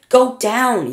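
high, loud shouted order; yell. A narrator's reading. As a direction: yell it over the roar. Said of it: "yelled Grandpa George".

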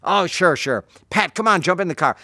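high and loud, waving it off and moving on; breezy eager invite. Retold or imitated. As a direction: bounce straight to the next guy. Bruce shrugs off, invites Pat.

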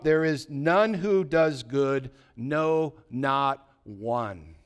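measured scripture reading voice; steady, solemn scripture reading. Acted. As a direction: read the psalm with weight. Reading Psalm 53 aloud.

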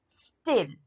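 "स्टिल" set apart as a strong beat; stressed syllable. Shown as a demonstration. Teacher showing the stressed word, "स्टिल" said firmly. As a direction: land on "स्टिल" by itself. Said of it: "अब ये stressed हुई".

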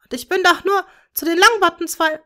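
high, loud, grief-stricken cries; anguished screaming. A narrator's reading. Bellatrix to Tom over their dead daughter, anguished scream. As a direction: scream out her pain and rage. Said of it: "schrie Bellatrix leidend".

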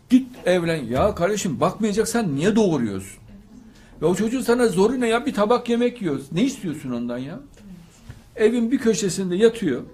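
high, loud, pleading rebuke; fiery preacher pleading against sending daughters away; preaching at full force. Acted. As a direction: scold the parents with rising passion. Impassioned rebuke of parents.

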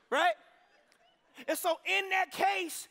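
loud, high preaching build; preacher raising the roof; fired-up preaching. Real, not acted. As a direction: preach it hard to the congregation. Preaching at full force.

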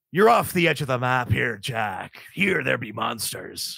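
low pirate captain, slowing ominously; Barbossa. Acted. Pirate captain warning Jack of monsters, slow ominous voice. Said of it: "the Barbossa I tried to do".

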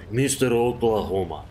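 "Mister Oklahoma" in a light mock Slavic accent, rolled r; a hint of a hammed-up Slavic accent. Shown as a demonstration. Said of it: "I will just call you Mister Oklahoma in a Slavic accent".

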